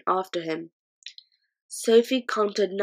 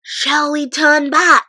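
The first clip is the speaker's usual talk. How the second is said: put-on higher, slow, anxious girl; nervous girl; 8 semitones higher, 10 dB louder, slower than usual. A narrator's reading. Sophie frightened in the pocket, nervous girl voice. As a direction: let the fear creep in.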